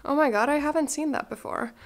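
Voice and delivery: sudden thrilled find; surprised. Real, not acted. Finding an unexpected label on grandma's blazer, surprised.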